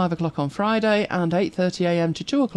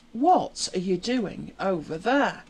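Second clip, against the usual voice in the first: soft dog talk; 6 dB quieter, slower than usual. Real, not acted. Talking to her dog.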